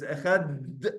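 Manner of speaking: slow "echad", hard d held without added vowel; plain held dalet. Shown as a demonstration. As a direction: hold the d of "echad" with no vowel after. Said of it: "add vowels to it".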